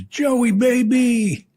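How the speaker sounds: high loud call of the name; hearty mock hello; loud greeting. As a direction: greet him like a long-lost pal. Company worker greeting loudly.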